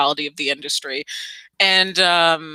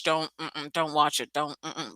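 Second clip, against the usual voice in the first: quiet warning; 3 semitones lower, 9 dB quieter than usual. Real, not acted.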